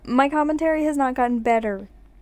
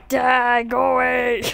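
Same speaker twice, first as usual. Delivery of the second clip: loud yell to go away; shouting; 5 dB louder, slower than usual. Real, not acted. Yelling at player.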